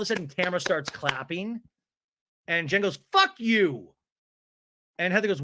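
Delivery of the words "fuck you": higher mock-angry retort. Jen swears at Tamara in the recap, mock anger. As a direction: throw it out as an acted outburst. Acted quote of cast quarrel.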